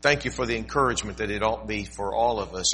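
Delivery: earnest pulpit prayer that rises then fades to a hush. Acted. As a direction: pray aloud for guidance, softening at the end. Pastor prays before sermon.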